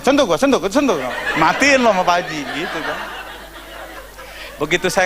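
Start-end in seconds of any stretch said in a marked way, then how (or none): 0.0-2.4 sentuh repeated as a cocky dare; daring taunt. Retold or imitated. Pastor taunting the santri as he walks out, cocky dare. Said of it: "nyenggol-nyenggol".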